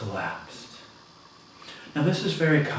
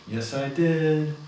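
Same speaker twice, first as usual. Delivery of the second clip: higher, louder, slow; slow raised retort; 5 semitones higher, 5 dB louder, slower than usual. Retold or imitated. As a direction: push back loud. Coworker retort.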